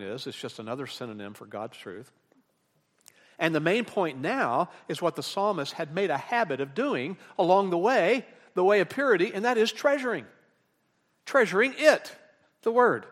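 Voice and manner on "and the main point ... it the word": raised, louder sermon delivery; emphatic preaching. Real, not acted. Preacher driving home the psalmist's habit to the congregation, emphatic preaching. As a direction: press the main point home, pitched up.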